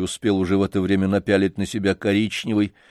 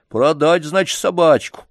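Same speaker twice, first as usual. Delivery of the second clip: put-on much higher, lively chatter about the spoiled boy; gossiping janitor; 8 semitones higher, 4 dB louder than usual. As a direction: gush about the master's family as a servant. Janitor voiced in story.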